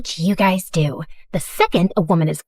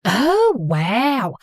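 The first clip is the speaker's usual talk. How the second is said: put-on thick Southern mom accent; gushing Southern accent, apologetic and sweet. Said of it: "speaking in a thick Southern accent".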